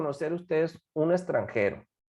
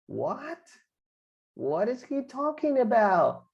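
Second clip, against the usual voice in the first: higher-pitched, puzzled reaction; confused listener; 5 semitones higher, slower than usual. Acted. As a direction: act out someone who is lost. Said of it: "la otra persona se queda así". (confundido, sin entender)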